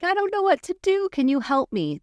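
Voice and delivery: high-pitched, pleading helplessness; imitating helpless kid. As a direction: mimic someone lost and asking for help. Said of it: "or they're like".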